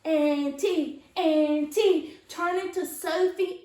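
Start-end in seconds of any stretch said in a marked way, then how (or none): 0.0-2.1 high loud cheer. Acted. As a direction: cheer like a crowd. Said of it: "Everybody cheered".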